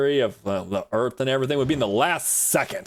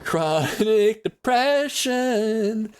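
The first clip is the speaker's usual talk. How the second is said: mock depressed voice; 8 semitones higher, much slower than usual. Mock gloomy answer to a question.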